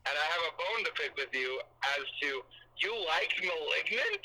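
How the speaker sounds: tinny phone call audio; on speakerphone. Real, not acted. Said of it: "you're on speaker".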